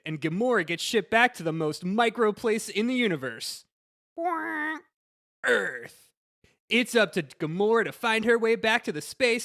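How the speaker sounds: Disney trailer guy voice. Pretend. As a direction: sell it like a trailer announcer. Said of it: "Do it in your best Disney trailer guy voice".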